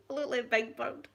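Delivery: lightly voiced groggy daughter on morphine; mock drowsy patient; imitating drowsy daughter. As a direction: echo her dopey line with a hint of a drugged voice.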